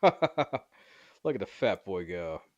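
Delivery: slow, loud gloating jeer; mocking. Old woman mocking the fleeing boy, slow loud jeer. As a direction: drag it out to mock him.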